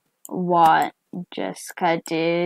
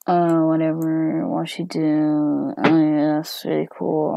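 indifferent dog; 2 semitones lower than usual. Acted. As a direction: shrug it off lazily. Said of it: "who just doesn't really care".

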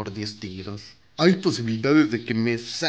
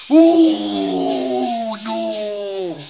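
high, loud shout of dismay; 9 semitones higher, 9 dB louder than usual. Real, not acted. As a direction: cry out in disappointment. Bad pull result.

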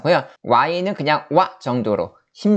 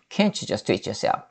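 slow model read; 3 semitones lower, 6 dB quieter, much slower than usual. Shown as a demonstration. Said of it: "이렇게".

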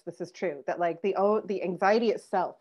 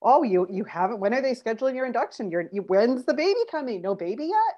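nagging relatives; 3 semitones higher than usual. Retold or imitated. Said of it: "family and friends to".

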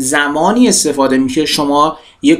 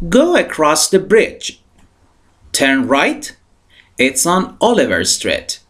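slow model reading; much slower than usual. Shown as a demonstration. Teacher models English sentence.

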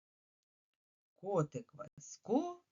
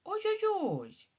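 high frightened wail; mock scream; scared cry; 13 semitones higher, 4 dB louder, much slower than usual. Shown as a demonstration. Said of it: "якими словами автор описує".

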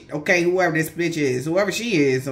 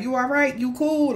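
caring check-in; 6 semitones higher than usual. Retold or imitated. Checking on the viewer.

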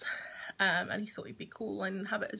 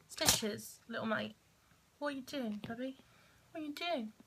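softer, slightly lifted cooing; gentle pet talk; 4 dB quieter than usual. Real, not acted. Owner asks her cat what it is up to, gentle pet talk. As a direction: murmur fondly to a pet.

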